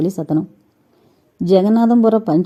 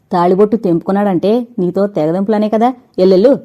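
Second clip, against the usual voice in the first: angry order out. Acted. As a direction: bark her out the door. Uncle ordering her out. (Jagannatham శారదను గట్టిగా వెళ్ళగొడుతూ)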